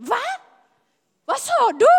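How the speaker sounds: high, loud startled "what?"; a woman reeling at the news; shocked disbelief. Retold or imitated. (chockad, hög och högljudd)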